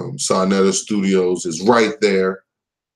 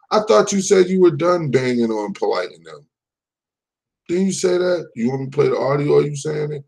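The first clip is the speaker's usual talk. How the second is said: mocking; 6 semitones higher, faster than usual. Real, not acted. Mocking rival, pitch raised.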